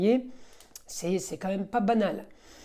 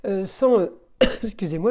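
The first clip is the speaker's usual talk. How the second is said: speaking through hiccups; words broken by hiccups; 4 dB louder than usual. Real, not acted. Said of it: "j'ai le hoquet".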